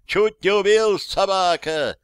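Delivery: high shrieking furious wail; вопль. A narrator's reading. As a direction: wail it like a wounded officer. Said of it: "вопил подполковник". (высокий яростный вопль)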